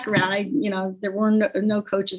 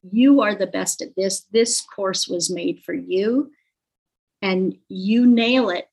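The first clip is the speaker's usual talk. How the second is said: confident pep talk. Retold or imitated. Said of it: "talked to me with confidence".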